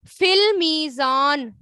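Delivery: فی المیزان said slowly with weight on فی; slow model phrase. Shown as a demonstration. Teacher reads the hadith phrase to the class, slowly. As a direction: read فی المیزان slowly and clearly. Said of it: "ٹھیک ہے، کس میں؟".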